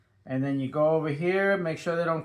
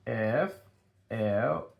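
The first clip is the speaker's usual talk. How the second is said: spelling out letters; 4 semitones lower, slower than usual. Shown as a demonstration. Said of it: "we wanna learn how to spell it".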